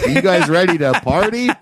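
mock announcer yell; emcee hype. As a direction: hype the crowd like a cheesy host. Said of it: "picture the mic feedback".

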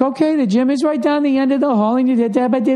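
very high robotic sing-song; mock high, looping sing-song; sing-songy receptionist. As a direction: imitate a bored clerk on a programmed pitch arc. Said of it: "just that sing-songy everywhere".

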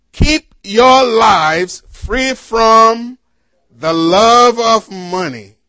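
slow, emphatic Bible reading; scripture reading. Acted. Preacher reading Hebrews to the congregation, slow and emphatic. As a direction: read it out deliberately, weighting key words.

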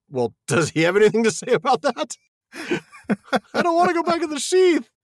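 high squeaky voice for the sword; a little sword whining about its sheath; voicing Sting the sword. Podcaster voicing a talking sword, high and squeaky. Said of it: "I'm like".

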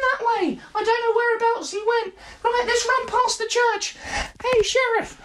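high squeaky bystander voice. Acted. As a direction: chirp it as a helpful passerby.

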